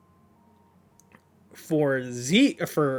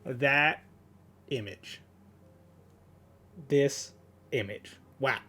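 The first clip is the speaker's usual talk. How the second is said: much softer, almost breathless awe; hushed awe; 2 semitones lower, 7 dB quieter than usual. Real, not acted. Fan staring at a stunning panel, hushed awe. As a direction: drop to a hush as if overwhelmed.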